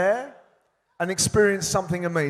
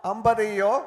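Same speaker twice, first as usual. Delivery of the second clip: laughing; 2 semitones higher, much faster than usual. Real, not acted. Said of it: "speak a few lines in Telugu".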